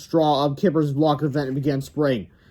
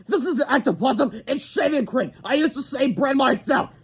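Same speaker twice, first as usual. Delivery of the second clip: much higher gruff grown-up; principal voice; 10 semitones higher than usual. Acted. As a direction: explain it's shaving cream.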